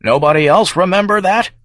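high, rising plaintive question. A narrator's reading. Old congressman glances round for support, plaintive. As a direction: appeal to the room, pitch climbing to the end. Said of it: "he asks plaintively".

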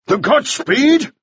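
slow, high, incredulous bark; barked question. A narrator's reading. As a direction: bark it back as a shocked demand. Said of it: "Mannering barked".

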